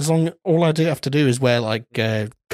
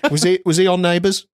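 put-on Australian accent; 2 semitones higher than usual. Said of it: "commitment to the Australian accent".

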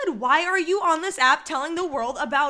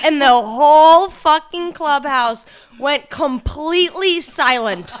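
slow, loud, cracking with laughter; excited half-shout; 6 dB louder, slower than usual. Real, not acted. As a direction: stretch it out, almost yelling in disbelief. Telling the shocked silence.

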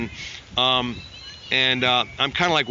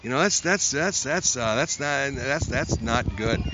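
hesitant producer. Retold or imitated. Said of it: "He goes".

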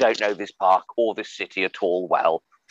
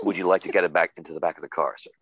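brisk, lower American officer; policeman voice; 4 semitones lower, faster than usual. Shown as a demonstration. Policeman ordering a boy into the car, brisk officer voice. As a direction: put on a quick, formal cop voice. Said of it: "Um, in that voice".

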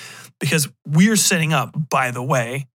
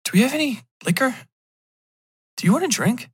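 tag; 10 semitones higher, faster than usual. Acted. Acted exchange about a drink.

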